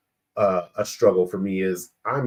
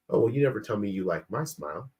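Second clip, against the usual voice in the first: softer, quicker, casual delivery; innocent remark; 6 dB quieter, faster than usual. Retold or imitated. Wife as she hears herself speaking to husband, mild and offhand. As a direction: toss it off as a harmless passing comment. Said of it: "She hears".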